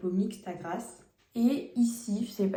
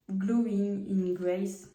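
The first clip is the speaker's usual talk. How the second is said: English name said slowly with a French accent; much slower than usual. Real, not acted. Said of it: "faut pas trop faire attention à mon accent". (accent français en anglais)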